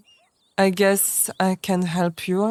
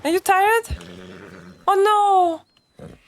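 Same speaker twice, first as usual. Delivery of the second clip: coaxing the horse; 11 semitones higher than usual. Acted.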